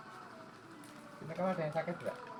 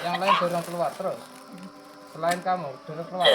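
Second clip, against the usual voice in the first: loud, urgent raised voice; urgent command; 3 semitones higher, 5 dB louder than usual. Real, not acted. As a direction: order them out over the commotion. Ordering others pushed out amid screams. (perintah mendesak dengan suara keras)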